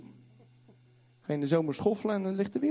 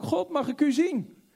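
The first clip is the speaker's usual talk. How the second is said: pleading Moses; 10 semitones higher, 3 dB louder than usual. Acted. Moses pleads to see God.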